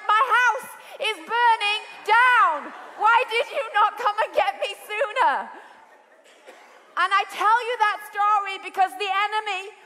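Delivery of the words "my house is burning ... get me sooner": exasperated outburst. Retold or imitated. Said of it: "I'm like".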